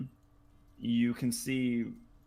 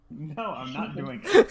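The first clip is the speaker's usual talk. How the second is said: husky female voice; 8 semitones higher, 8 dB louder than usual. Acted. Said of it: "a husky female voice and goes".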